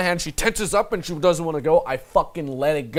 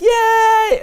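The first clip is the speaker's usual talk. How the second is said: very high, loud squealed imitation; mock excited cheer; 10 dB louder than usual. Imitating a girl surrounded by cool guys, excited. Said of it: "She's all excited".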